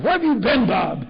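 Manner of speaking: high, loud, astonished question; exclaimed demand. Retold or imitated. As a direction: act a friend calling out in disbelief. Retold friend demands where he was.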